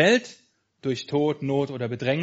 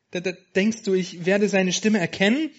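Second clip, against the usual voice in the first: higher, stammering worried question; worried lamb asking her friend, a bit higher; 5 semitones higher than usual. Acted. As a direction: ask fearfully, stumbling over the start. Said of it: "fragte Wertvoll besorgt".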